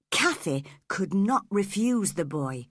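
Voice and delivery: ordinary delivery, nothing marked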